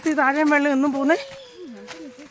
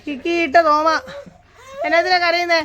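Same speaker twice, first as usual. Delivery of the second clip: coaxing; 5 semitones higher, 5 dB louder than usual. Real, not acted. Asking crying child why.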